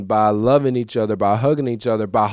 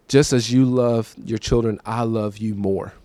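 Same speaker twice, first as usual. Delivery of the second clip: God's tender reply; slower than usual. Retold or imitated. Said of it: "And he said".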